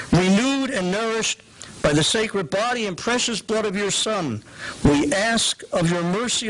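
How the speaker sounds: measured liturgical reading; prayer reading. Shown as a demonstration. Teacher reads a post-communion prayer, liturgical. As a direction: read it as prayed at Mass. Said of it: "as you hear it".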